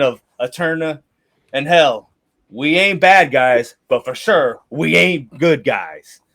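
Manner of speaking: lightly voiced old merc, easygoing; a hint of a veteran sellsword shrugging off the past; a lightly voiced mercenary captain reassuring the recruits; grizzled mercenary leader. Leader NPC speech.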